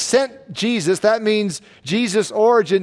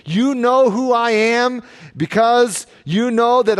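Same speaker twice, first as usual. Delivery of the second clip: forceful paraphrase in a higher preaching voice; passionate; 4 semitones higher, 3 dB louder than usual. Retold or imitated. Jesus confronting those feigning confusion, passionate. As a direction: press the accusation with raised intensity. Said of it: "He said this passionately, loudly".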